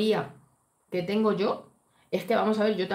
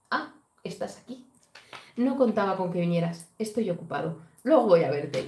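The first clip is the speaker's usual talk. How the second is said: dismissive husband. Retold or imitated. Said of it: "hace como así".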